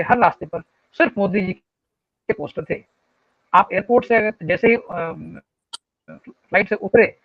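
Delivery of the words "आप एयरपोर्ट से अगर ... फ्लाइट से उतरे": corrupted glitchy audio. Real, not acted. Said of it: "आपकी आवाज कट-कट के आ रही है".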